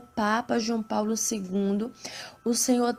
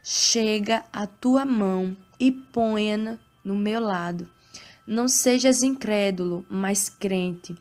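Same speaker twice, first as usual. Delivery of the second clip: scripture reading. Acted. Reads Bible passage aloud.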